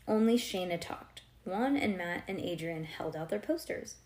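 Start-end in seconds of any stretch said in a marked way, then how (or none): none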